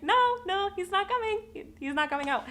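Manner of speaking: high, panicked pleading; telling the midwife in a high panicked voice he is stuck; retold panic. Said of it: "And I'm like".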